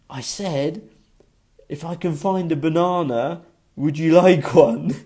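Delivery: slow, put-on Russian accent; deep Russian accent. Guy who works there offering fruit, imitated Russian accent. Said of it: "like, the deepest Russian accent I've ever heard".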